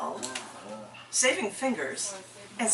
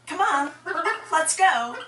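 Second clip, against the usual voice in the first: higher, cheery call with a smile; smiling; 8 semitones higher, 5 dB louder, slower than usual. Retold or imitated. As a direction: call out brightly to hurry someone along. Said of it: "I said with a smile".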